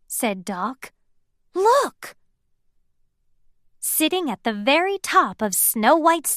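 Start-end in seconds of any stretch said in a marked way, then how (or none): 1.5-2.1 high, sharp call; excited look. A narrator's reading. Doc pointing out the birds to everyone. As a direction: point it out eagerly.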